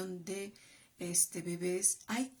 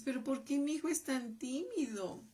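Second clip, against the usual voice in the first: worried parent; 5 semitones higher than usual. Retold or imitated. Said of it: "cuando tú te preguntes".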